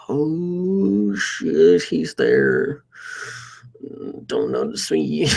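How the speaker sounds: a jolt of retold panic, pitch jumping up then dropping down; panicked inner voice. Panicked inner thought on spotting him.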